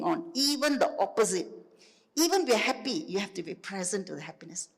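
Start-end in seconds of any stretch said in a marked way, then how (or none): 3.1-4.7 whispering. Acted. Gentle aside within teaching.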